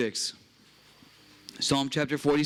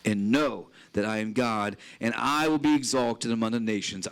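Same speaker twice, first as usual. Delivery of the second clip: scripture reading. Acted. Preacher reading Psalm forty-six to the congregation, solemn. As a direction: read the psalm out with weight.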